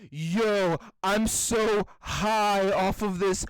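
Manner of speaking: slow, stiff robot stoner. Pretend. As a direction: say it like an ad-libbing robot. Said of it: "sounds like a fucking robot".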